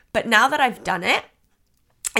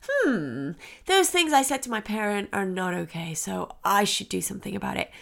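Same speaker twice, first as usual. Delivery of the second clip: mock reflective child; 4 dB quieter than usual. Imagined child reflecting on words.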